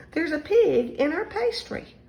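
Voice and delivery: high, loud storybook howl. A narrator's reading. The Rices see a pig in their pastry, howling. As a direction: howl it in mock dismay. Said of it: "Mister and Missus Rice howled".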